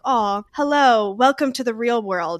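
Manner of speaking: lightly acted intimidating mentor; mock scary boss. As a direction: put the newcomers on notice, half joking. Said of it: "Scary. You're scary".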